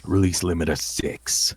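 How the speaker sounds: measured, lightly intoned incantation; intoned command. Acted. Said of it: "he would intone again".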